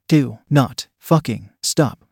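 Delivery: each word of "Do not fucking stop" slow and separate; emphatic command. A narrator's reading. Violet insisting that Carter carry on, emphatic and word by word. Urgent command, words set apart.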